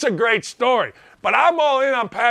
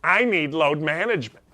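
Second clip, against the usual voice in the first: whiny NBA player. Retold or imitated. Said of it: "Compare that with".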